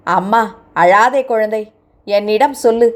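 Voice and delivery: a hint of fatherly comfort; soothing. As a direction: coax her gently to speak. Old man soothes crying girl.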